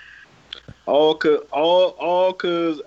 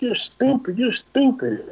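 higher-pitched retold quarrel; mock heated insult; 5 semitones higher, slower than usual. Other driver insulting him in traffic, mock heated. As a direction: throw the insult out high, mildly heated.

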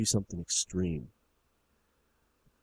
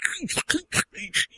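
high-pitched squealing noises; mimicked high squeals; imitated squealing. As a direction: squeal in short high bursts. Imitating the man behind him.

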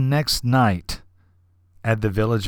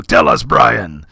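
slow, louder, relishing each word; a touch of swagger; with gusto; 6 dB louder, slower than usual. Retold or imitated. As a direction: savor it like a triumphant host. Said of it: "he says with gusto".

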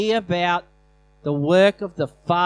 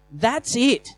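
raised, forceful command to sickness; firm command; 3 semitones higher than usual. Shown as a demonstration. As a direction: order the pain out with authority. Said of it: "it's a sign of saying".

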